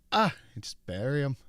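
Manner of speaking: lightly mock Irish local; offhand fake Irish voice; put-on Irish accent. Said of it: "putting on an Irish accent".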